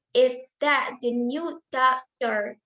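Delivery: slow question with "doctor" meant to rise; rising intonation. Shown as a demonstration. Teacher giving a yes-no question example, rising intonation. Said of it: "rising intonation".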